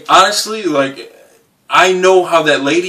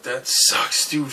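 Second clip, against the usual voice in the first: whispered shrug; 6 dB quieter, slower than usual. Retold or imitated. Muttering from the window.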